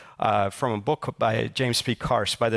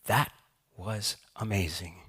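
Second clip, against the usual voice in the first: put-on happy kid; 2 semitones lower, 7 dB quieter than usual. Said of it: "with a giant smile on his face".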